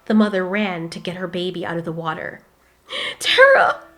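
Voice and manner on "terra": high, loud cry of the name. Acted. Mother pulling her baby from the river, calling loudly. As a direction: call her baby out of the water.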